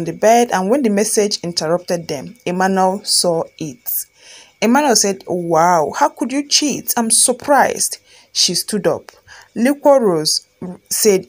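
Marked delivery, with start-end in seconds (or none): 5.3-8.0 shocked accusation. Acted. Husband who just saw the message, mildly shocked. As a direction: accuse in disbelief, drawing out the end.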